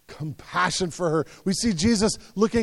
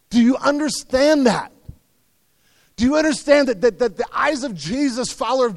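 higher and louder, pressing the question; emphatic appeal; 6 semitones higher, 4 dB louder than usual. Real, not acted. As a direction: drive it home to the congregation. Preacher presses the point.

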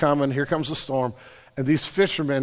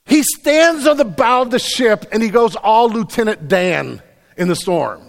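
loud, raised storytelling from the pulpit; full-force preaching; 4 semitones higher, 9 dB louder than usual. Acted. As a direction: preach the dramatic turn at full volume.

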